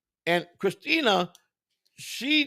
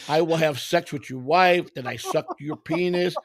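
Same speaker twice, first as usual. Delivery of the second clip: mock Indian accent. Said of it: "You went to a wannabe Indian voice".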